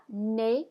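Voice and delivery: "nez" as "nay", Z silent; French pronunciation. Shown as a demonstration. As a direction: model "nez" to rhyme with English play. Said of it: "Go ahead and say that".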